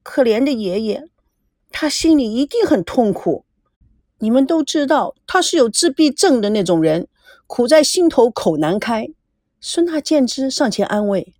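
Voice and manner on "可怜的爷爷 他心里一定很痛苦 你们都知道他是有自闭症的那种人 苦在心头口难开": mild, whimpering pity for grandpa; lightly tearful granddaughter. Acted. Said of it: "美娇哭声哭调地说".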